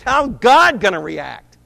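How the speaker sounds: loud rhetorical challenge; urgent shout. Acted. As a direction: hit this question hard and slow. Preacher's own urgent question.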